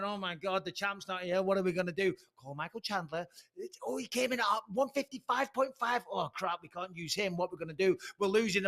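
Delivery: fretting officials. Acted. UFC staff with clipboard finding the champ missing, mock fretting. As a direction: mimic mild backstage panic. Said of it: "the U F C are going back there with a little clipboard going".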